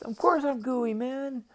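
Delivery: high, loud, animated creature voice; excitable octopus, insistent and high; exasperated octopus. Acted. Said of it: "And the octopus says".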